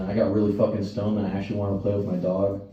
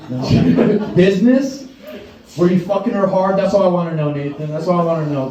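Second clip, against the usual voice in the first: loud, high teasing shout at Nathan; mock interrogation; 6 semitones higher, 4 dB louder than usual. Real, not acted. Comic yelling at a heckler in the crowd, loud and high. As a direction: bark the question at him, grinning.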